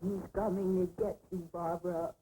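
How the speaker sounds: low mock-menacing taunt; a brother taunting his sister in a mock-spooky voice; teasing spooky voice. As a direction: tease her in a spooky low voice. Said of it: "Johnny kept teasing me and saying".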